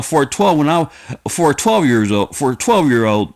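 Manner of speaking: usual speaking voice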